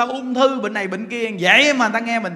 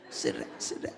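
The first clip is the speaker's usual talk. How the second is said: mock hissing shoo; 12 dB quieter than usual. Mimics people shunning the infected.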